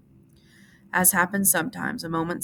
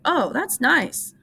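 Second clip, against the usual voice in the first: Lenny, dreamy; 9 semitones higher, 4 dB louder, much slower than usual. A narrator's reading. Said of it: "Lenny said".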